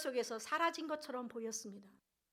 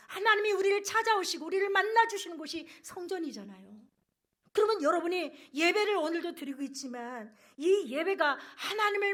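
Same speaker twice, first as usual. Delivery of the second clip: raised, loud sermon voice; forceful, insistent pulpit delivery; impassioned preaching; 4 semitones higher, 7 dB louder than usual. Real, not acted. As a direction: drive it home to the congregation.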